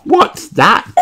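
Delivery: put-on high curious little girl; curious child. A narrator's reading. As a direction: point and ask. Peppa voiced.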